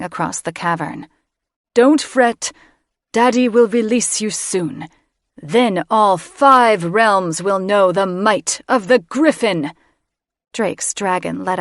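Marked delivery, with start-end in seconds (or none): 1.7-9.7 a villain soothing his brood; menacing doting mage. A narrator's reading. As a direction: mage gloating over his eggs. Mage promising eggs conquest.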